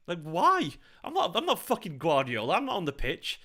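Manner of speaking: real frustrated complaint; exasperated protest. Real, not acted. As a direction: argue back, baffled and aggrieved. Protests being criticised by fans.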